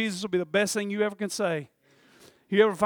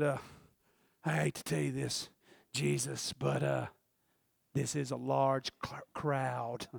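low, soft reluctant correction; hesitant objection; 5 semitones lower, 6 dB quieter, slower than usual. Retold or imitated. Preacher acting Peter gingerly correcting Jesus, hesitant objection. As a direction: break it gently, halting and hushed.

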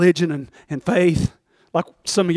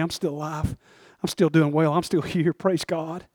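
humble thanks; 3 dB quieter than usual. Acted. Lazarus thanking God for a crumb.

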